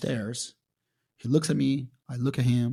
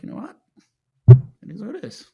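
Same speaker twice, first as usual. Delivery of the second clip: higher, mock-breezy acceptance; resigned shrug; 9 semitones higher, 14 dB louder, faster than usual. Fighter recalling shrugging off a serious infection, higher and light. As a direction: toss it off lightly. Quoting his resigned reaction.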